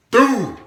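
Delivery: high, loud hit sound; explosive punch sound effect; shouted impact boom. Retold or imitated. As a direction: burst out a knockout "boom". Imitating the hit.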